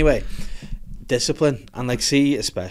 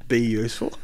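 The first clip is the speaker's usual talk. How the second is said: Arnold Schwarzenegger. Acted. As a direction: announce the title in a mock Austrian accent. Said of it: "reads it in his accent".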